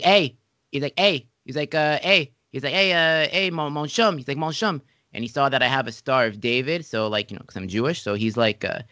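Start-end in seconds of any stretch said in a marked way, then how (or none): 0.0-4.8 rival coach calling out. Retold or imitated.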